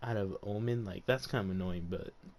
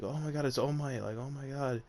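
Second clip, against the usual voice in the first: fanboy awe; 4 semitones higher than usual. Retold or imitated. Deku meets his hero All Might.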